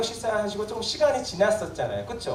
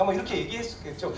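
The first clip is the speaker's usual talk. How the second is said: normal talking voice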